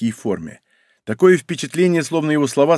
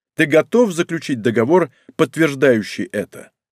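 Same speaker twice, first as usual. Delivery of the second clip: ordinary delivery, nothing marked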